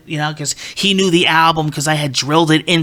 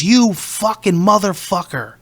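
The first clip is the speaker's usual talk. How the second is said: slow, drawn-out mock-angry insult; retold angry curse; 3 semitones higher, slower than usual. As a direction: imitate a furious singer cursing, at normal volume. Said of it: "Just like that".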